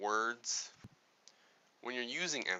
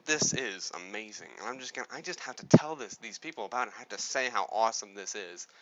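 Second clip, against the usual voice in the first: louder, eager burst of excitement; excited emphasis demo; 6 dB louder than usual. Shown as a demonstration. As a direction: gush about something amazing. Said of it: "you have to think".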